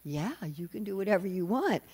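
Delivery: dazed agreement with swooping pitch; mock bewilderment. Bewildered demons giving in to Mohini, mock-dazed. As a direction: imitate a lightly besotted yes. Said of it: "so bewildered by her".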